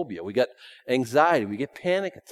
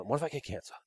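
rushed, fretful string of what-ifs; nervous mock rambling, fast; mock worrier; faster than usual. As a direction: spiral into imagined panic. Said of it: "I hear somebody get sick".

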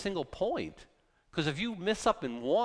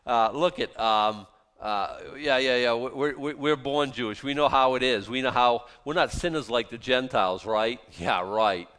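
louder, mock-smug born Jewish boast; 4 semitones lower, 5 dB louder than usual. Preacher voices Jews boasting over Gentiles, loud mock smugness. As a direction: puff up, self-satisfied and loud. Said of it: "He's saying that with a smirk".

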